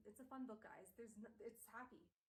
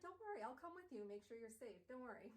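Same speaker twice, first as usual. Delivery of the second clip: eager. Acted. Will eagerly volunteers.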